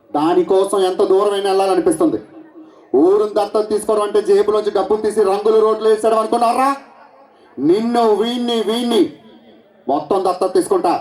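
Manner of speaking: lightly voiced film-hero dialogue; a hint of the star hero; Mahesh Babu impression. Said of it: "ఇప్పుడు చేసింది Mahesh Babu voice".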